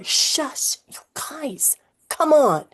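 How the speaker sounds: high unvoiced shush; hushing whisper. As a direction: hush them urgently. Hushing kids in hiding.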